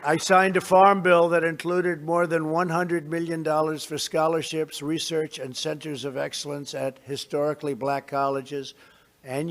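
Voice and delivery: measured, formal address to a crowd; podium speech. Real, not acted. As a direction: deliver it like prepared remarks.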